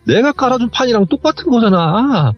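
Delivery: mock yelling, climbing to a high cry; acted protest building to a high, drawn-out wail; retold screaming. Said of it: "하면서 막 소리를 지르는데".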